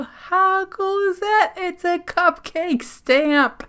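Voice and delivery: high, loud excited delight. Real, not acted. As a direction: gush over the find. Delighted at cupcake stamp.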